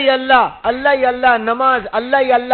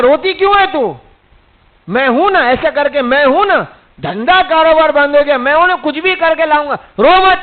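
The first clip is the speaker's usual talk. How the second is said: reassuring husband. Retold or imitated. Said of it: "اس کو بھی تسلی دلا دیتا ہے".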